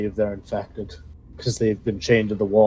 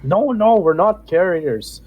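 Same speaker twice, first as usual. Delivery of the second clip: higher, pleading goblin prisoner; 4 semitones higher than usual. Acted. GM voices starved goblin.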